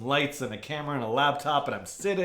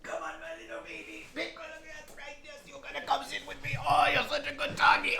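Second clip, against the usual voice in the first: squeaky praising a dog; 12 semitones higher, 3 dB quieter than usual. Real, not acted. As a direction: coo at the dog in a high voice. Talking baby talk to his dog.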